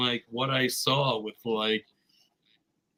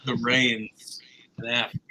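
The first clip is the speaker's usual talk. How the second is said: whispering. Retold or imitated. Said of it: "And it's like".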